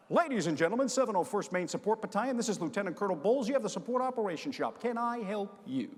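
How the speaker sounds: crisp, formal officer answering the phone; formal phone greeting. Retold or imitated. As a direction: announce yourself like a proper colonel.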